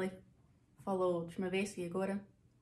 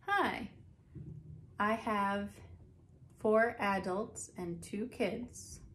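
customer greeting; much slower than usual. Pretend. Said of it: "Então".

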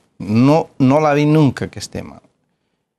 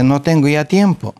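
higher-pitched retold protest; arguing excuse; 5 semitones higher than usual. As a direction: push back, as in a retold squabble. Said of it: "una pelea". (excusa en plena pelea, imitada)

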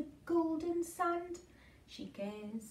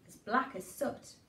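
plain reading voice

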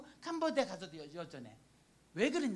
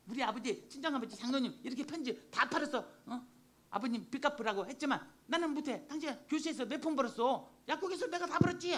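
mock quarrel, pitch climbing toward the end; retold nagging argument; 4 semitones higher than usual. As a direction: re-enact a wife having it out with her husband. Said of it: "네 돈 내 돈 따지고". (남편에게 따지는 말투 재연)

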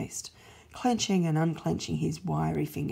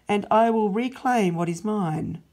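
louder, firm resolve, each I will stressed; God's loud proclamation; 3 semitones higher, 7 dB louder than usual. Acted. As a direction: announce the plan like a decree. God declares his plan.

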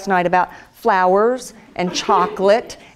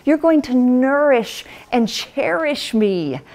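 higher, slow excited pleading; eager young bride; 6 semitones higher than usual. Retold or imitated. Young wife showing her husband the verse, high and eager. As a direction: point it out to him, slowly and much higher. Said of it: "It sounds so romantic to me".

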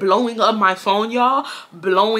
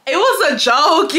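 insisting; 6 semitones higher than usual. Real, not acted. Insisting to the viewers.

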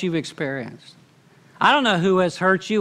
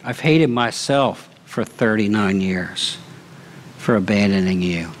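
tearful mother's confession; 7 semitones lower than usual. Retold or imitated. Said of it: "She began to cry, and she said".

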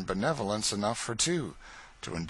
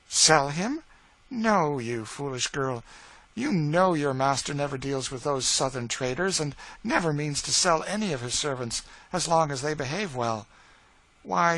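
higher and louder, fond and chiding; mistress's voice; 6 semitones higher, 3 dB louder than usual. Acted. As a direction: tease and reassure a frightened servant. Mistress scolds and reassures Eliza.

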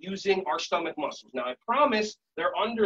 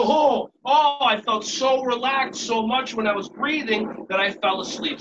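louder, higher jolt awake, then settling; acted startled waking; 4 semitones higher, 5 dB louder than usual. Teacher explains to kids after pretending to sleep, mock startled. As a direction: play a teacher caught dozing. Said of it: "And I go".

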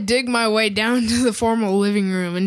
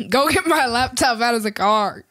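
dad impression; 3 semitones higher than usual. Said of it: "do an impression of me".

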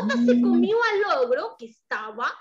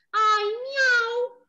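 cat meow; 8 semitones higher, 3 dB louder than usual. Acted. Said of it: "El gato le dijo".

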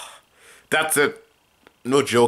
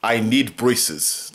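slow demo; slower than usual. Shown as a demonstration. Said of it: "Like in French".

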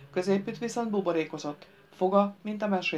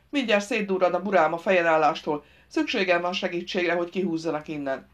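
firm, emphatic explaining to an idiot; irritable driver, insistent; 6 dB louder than usual. Acted. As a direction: demand attention, starting loud.

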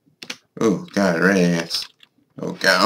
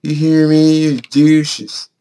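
loud, higher jeering call at the birds; yelled taunt; 6 semitones higher, 4 dB louder, much slower than usual. Real, not acted. Player yelling insults at the birds in the cave, loud taunting shout.

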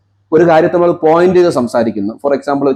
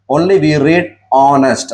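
slow dictation; much slower than usual. Shown as a demonstration. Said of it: "teacher slow dictation".

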